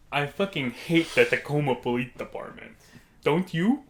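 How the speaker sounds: lightly imitated complaint, rising on the question; odd customer impression. Odd stranger seeking agreement from the friend, lightly imitated. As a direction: put on the man's voice, seeking agreement. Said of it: "It's how he sounded".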